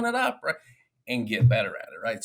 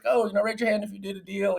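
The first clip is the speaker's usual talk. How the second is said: mock meeting host; 10 semitones higher than usual. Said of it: "they're like".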